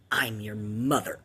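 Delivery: breathy, hushed mock-creepy whisper; eerie whisper. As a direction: whisper it like a ghost on the line. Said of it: "in this tone".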